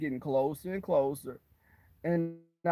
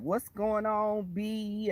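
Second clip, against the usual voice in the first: slow, drawn-out sassy greeting, lightly imitated; a hint of flamboyant nurse; 4 semitones higher, much slower than usual. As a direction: lightly mimic a flamboyant man, stretching the words. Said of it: "he was real flamboyant".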